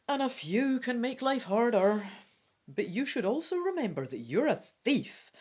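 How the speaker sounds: emphatic, measured rules reading; projected storybook-instructions voice; gamebook read-aloud. Acted.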